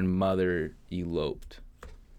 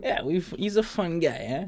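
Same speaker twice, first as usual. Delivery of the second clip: mock Italian accent; 10 semitones higher than usual. Mock Italian after intro.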